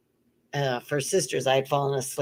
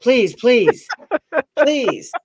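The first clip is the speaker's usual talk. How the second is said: mock begging; 3 dB louder than usual. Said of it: "like, begging people".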